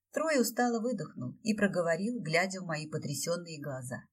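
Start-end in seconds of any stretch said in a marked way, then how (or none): none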